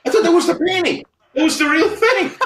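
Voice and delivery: high, loud quote broken by laughter; laughing retelling. Retold or imitated. Quoting Bert's mistake about the sketch, laughing. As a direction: laugh through the client's mix-up. Client mistook sketch for painting.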